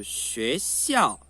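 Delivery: "学校" slow, rising then falling; second plus fourth tone. Shown as a demonstration. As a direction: lift "学", drop "校" hard. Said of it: "Segundo e quarto". ("学校": sobe e depois cai forte)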